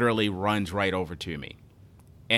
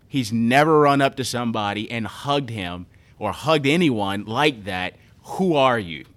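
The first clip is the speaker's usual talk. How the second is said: mom's quote told louder, with emotion; moved, louder retelling; 6 dB louder than usual. Retold or imitated. Retelling the mother's amazed words about her son, louder. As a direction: give the mom's amazement, raised and full. Mom telling of son's hug.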